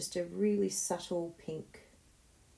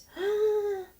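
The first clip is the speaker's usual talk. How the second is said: sharp delighted gasp, much higher; 7 dB louder than usual. Real, not acted. Admiring finished card.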